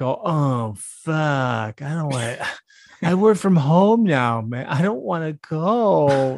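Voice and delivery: hammed-up complaining remote worker, drawn out; whiny worker. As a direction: whine like a lazy employee who won't go in. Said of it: "They're just like".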